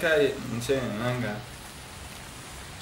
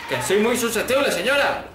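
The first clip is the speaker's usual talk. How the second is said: higher, susceptible rising, whiny; mock whine; 6 semitones higher than usual. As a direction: plead playfully with the lady. Repeats mock-plaintive. (quejica en broma)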